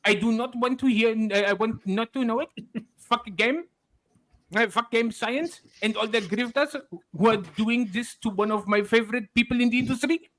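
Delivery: mock Chinese accent, mildly angry; whiny tweet in a put-on Chinese accent. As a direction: read it out in a hammed-up Chinese accent. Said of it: "In your, in your best angry Chinese voice".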